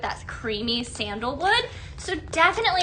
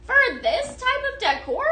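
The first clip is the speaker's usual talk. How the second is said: mock disbelief; 10 semitones higher, 3 dB louder than usual. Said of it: "I was like".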